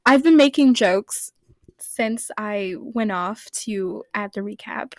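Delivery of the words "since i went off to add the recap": whispered aside. Real, not acted. Whispered aside while laughing.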